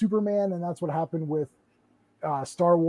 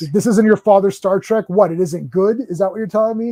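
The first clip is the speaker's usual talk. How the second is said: louder, mock-indignant challenge; 6 dB louder than usual. Fan arguing back at filmmakers, mock indignant. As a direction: throw the slogan back, a touch incredulous.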